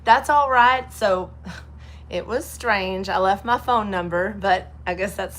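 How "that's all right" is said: mild higher friendly florist; florist's voice. Retold or imitated. Florist telling them to pay later, lightly higher friendly. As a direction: say it sweetly, pitched up. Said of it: "she said".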